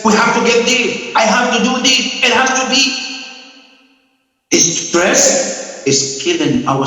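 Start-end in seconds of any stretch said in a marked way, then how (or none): 0.0-2.8 higher, pressured inner voice of a stressed man; anxious grasping voice. Retold or imitated. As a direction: play the man who can't let go, a little frantic. Voicing the stressed family man.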